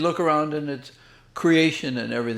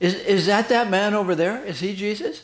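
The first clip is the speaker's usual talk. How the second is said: quite loud voice, pitched much higher; 2 semitones lower, 5 dB quieter than usual. Retelling what a girl sitting with her grandmother said, in a quite loud voice. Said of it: "in a quite loud voice she says".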